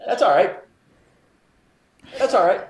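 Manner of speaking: retold calm brush-off; mock reassurance. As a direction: pat the neighbors on the head with it. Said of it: "the only thing you said was".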